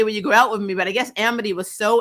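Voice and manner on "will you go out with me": louder nervous attempt at "Will you go out with me?", pushed out at once; nervous first try. Luce first trying to ask Amity out, louder nervous attempt. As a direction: blurt the question with a nervous push. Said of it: "she tries to say".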